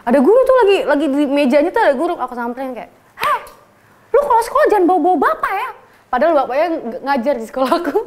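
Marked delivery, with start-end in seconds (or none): 3.2-5.7 high, fast laughing threat; mock confrontation. Senior confronting the teacher's son in class, fast laughing threat. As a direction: threaten him, half laughing.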